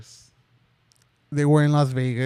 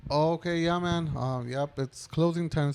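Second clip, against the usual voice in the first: higher, softer appeasing voice; placating; 3 semitones higher, 6 dB quieter than usual. Retold or imitated. Cashier tells an angry customer the store is closed, placating.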